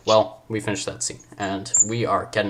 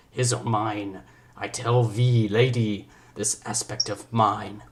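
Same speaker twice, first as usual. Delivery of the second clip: put-on slow French accent with sudden swoops; drawn-out mock-French Shakespearean wooing; attempted French accent; much slower than usual. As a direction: ham up a French-accented suitor, stretching the words. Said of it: "I'm gonna go for a French accent".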